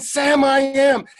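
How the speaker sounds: high, slow, full-volume chorus yell; kids shouting. Retold or imitated. Kids so loud the next class hears, imitated shout. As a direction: stretch it out like yelling children. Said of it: "they're shouting".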